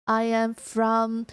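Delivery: very slow, deliberate English; careful, measured alien self-introduction; alien newcomer introducing herself. Pretend. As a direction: space out every word like a newcomer.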